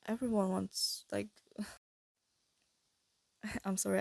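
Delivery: airy, breathy voice; breathy whisper. Real, not acted. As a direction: let the words go breathy. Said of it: "getting breathy".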